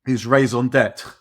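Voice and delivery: "raison d'etre" said slowly with French vowels, nasal "raison"; slow down and give "raison d'etre" a proper French sound; French pronunciation. Real, not acted. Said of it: "Raison what?".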